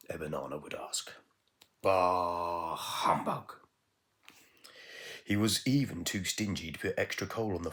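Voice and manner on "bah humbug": lightly voiced grumpy miser; grumpy Bah humbug. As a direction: grumble it like an old miser.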